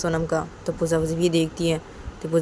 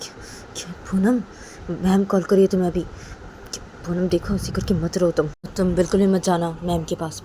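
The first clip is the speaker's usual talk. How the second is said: consoling friend; 3 semitones higher than usual. Acted. Pooja calming crying Poonam, lightly voiced and soothing. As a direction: coax her gently to stop crying.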